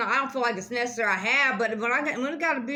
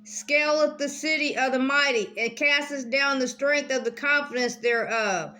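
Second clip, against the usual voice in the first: careful reread; 2 semitones higher than usual. Shown as a demonstration. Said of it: "Let me read that again".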